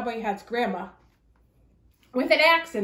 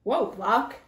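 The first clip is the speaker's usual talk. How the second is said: mild cry. Acted. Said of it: "cried Little Red".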